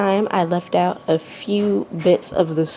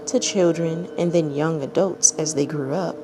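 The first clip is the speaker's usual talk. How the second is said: calm, even storytelling read; measured narrator voice reading a tale; story narration; 3 dB quieter than usual. A narrator's reading. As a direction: read it like a bedtime story to listeners. Reads a fanfic story aloud.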